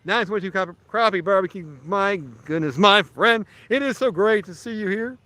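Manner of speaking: mock announcer voice, chirpy and pushed; cheesy radio announcer. Shown as a demonstration. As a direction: ham up the small-town radio host greeting. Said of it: "I could always talk like this".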